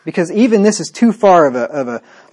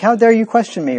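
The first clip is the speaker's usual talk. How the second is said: mock indignant woman; 6 semitones higher than usual. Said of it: "it'd be more of an emotional thing".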